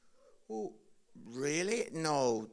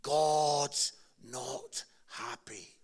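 mock thundering preacher; 5 semitones lower, much slower than usual. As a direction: slam the "Boom" then drag the words out lightly. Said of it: "and he started".

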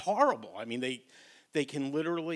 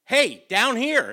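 high, loud frog calling up from the ground; a tiny frog yelling for help; loud calls for help; 9 semitones higher, 13 dB louder, slower than usual. Retold or imitated. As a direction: shout up from below, small and desperate. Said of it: "the voice is loud".

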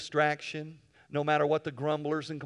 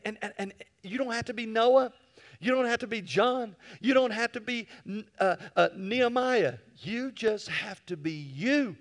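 passionate exhortation; 7 semitones higher than usual. Real, not acted. Preaching climax.

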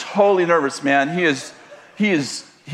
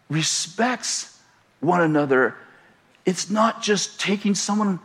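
softer, slower sincere advice; tender counsel; 4 dB quieter than usual. Acted. Pastor counselling the husband about love, softly. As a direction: ease into it gently, like counsel.

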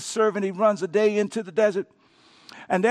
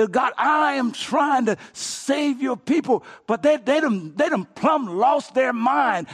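exasperated cry; 5 semitones higher, slower than usual. Acted. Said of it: "I'm gonna summarize it this way".

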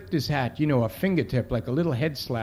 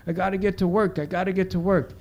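put-on higher-pitched voice for a mumbling kid; imitated mumbling kid; 6 semitones higher than usual. Kid mumbling to himself while walking off, mildly imitated. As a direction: repeat it to yourself, lightly acted and higher. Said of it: "he's mumbling".

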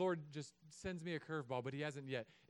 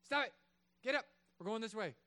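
firm parent shout; 3 semitones higher, 4 dB louder than usual. Pretend. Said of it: "Smack it out of his hands".

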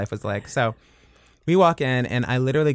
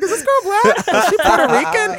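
much higher, bright mock question; 5 dB louder than usual. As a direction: ask it in a high, camp voice. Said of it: "I was like".

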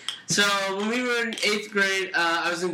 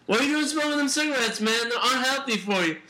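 raised-pitch, quick mock lecture; retold scolding; 5 semitones higher than usual. Friend retelling scolding a little brother for smoking, mock nagging. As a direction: nag in a higher voice. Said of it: "I was like".

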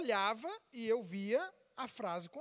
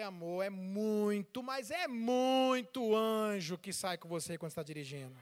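teasing emphasis; 3 semitones lower than usual. Retold or imitated. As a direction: stretch the words to tease her. Teases wife about her driving.

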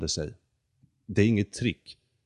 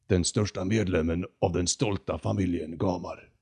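proud condor. Acted. The condor boasting to Jonathan about his proud family. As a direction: announce your grand lineage.

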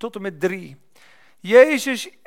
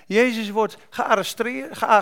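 normal talking voice

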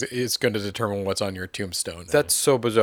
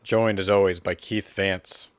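mock host intro as Elliot; 3 semitones lower than usual. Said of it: "talking about yourself in the third person".

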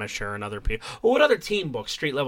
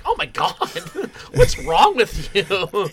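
exasperated laughing; 2 semitones higher, slower than usual. Retold or imitated. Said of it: "it's like".

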